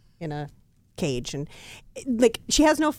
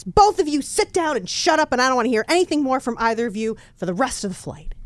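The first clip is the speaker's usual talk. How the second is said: stern scolding; 4 semitones higher than usual. Pretend. Stewardess scolds smoker and woman.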